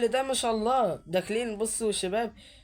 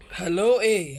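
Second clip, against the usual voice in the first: mock loud hello; 6 dB louder, slower than usual. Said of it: "يا عم اللي بتقول هلو".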